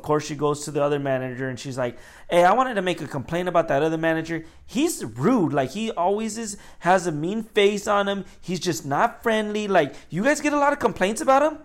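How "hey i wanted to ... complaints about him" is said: retold customer complaint. Customer complains to the other manager.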